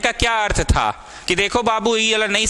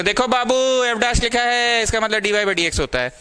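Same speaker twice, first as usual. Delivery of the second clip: coaxing teacher; 4 semitones higher than usual. Retold or imitated. Teacher coaxing a child pupil.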